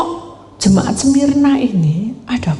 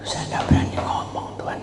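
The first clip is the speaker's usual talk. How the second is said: timid whisper; 8 dB quieter, faster than usual. Retold or imitated. Timid woman afraid to pray.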